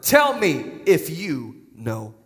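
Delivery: slow, low, hushed divine challenge; low slow voice of God daring Job; God's challenge. Acted. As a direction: let God's final question hang, slowly. God's challenge, end of reading.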